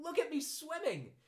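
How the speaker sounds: very high, excited squeak; squeaky little Roo. A narrator's reading. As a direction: squeal it like a proud small child. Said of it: "was answering".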